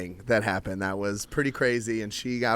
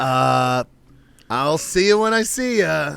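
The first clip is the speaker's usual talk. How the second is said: higher, breezy dodge of the question; higher, evasive brush-off to the coworker; 5 semitones higher, 7 dB louder, slower than usual. Retold or imitated. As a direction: brush her off, higher and lighter. His evasive reply retold.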